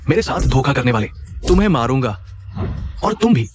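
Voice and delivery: furious threat. Acted. Husband threatens the cheaters.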